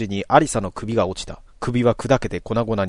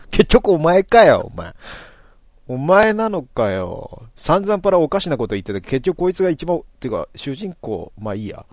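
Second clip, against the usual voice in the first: exasperated rant; 5 semitones higher, 5 dB louder than usual. Acted. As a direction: blow up then give up. Toru rants at unmasked Alisa. (呆れて怒鳴り、最後は投げやりに)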